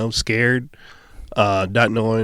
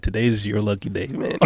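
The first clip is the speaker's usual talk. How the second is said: Texas drawl. Retold or imitated. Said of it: "that's definitely a Texas thing".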